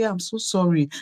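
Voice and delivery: hushed sheepish sorry; subdued apology. Retold or imitated. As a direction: back down quietly. Apologizing to husband in retelling.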